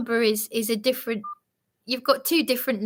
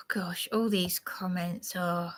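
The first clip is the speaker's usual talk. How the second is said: soft whisper, much quieter; whispered aside; 4 semitones lower, 8 dB quieter than usual. Real, not acted. Scrolling through her live chat comments, whispered to herself. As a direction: breathe it out as a whisper.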